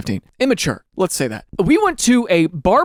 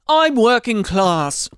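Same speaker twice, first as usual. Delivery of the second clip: put-on British accent; 3 semitones higher, much slower than usual. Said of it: "they'll talk about each other like".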